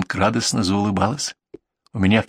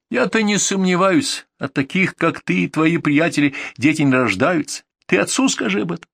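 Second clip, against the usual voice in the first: язвительно; 5 semitones higher than usual. Acted. Angry quarrel, sarcastic retort.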